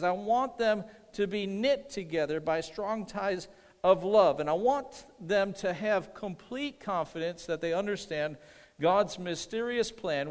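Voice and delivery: measured, weighty Bible reading; scripture reading. Acted.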